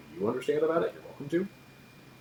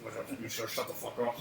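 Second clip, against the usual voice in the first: hissed aside; 6 dB quieter than usual. Acted. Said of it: "they're like".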